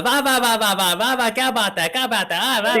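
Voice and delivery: put-on high excited Indian-accent praise, va va; north indian accent. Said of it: "I gotta drop the Indian style".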